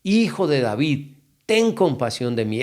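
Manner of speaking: mock calling out, high on the name then easing down; mild retold cry. Blind man calling to Jesus for mercy, mildly imitated cry. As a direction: imitate a pleading cry, stretched but not shouted. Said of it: "comenzó a gritar".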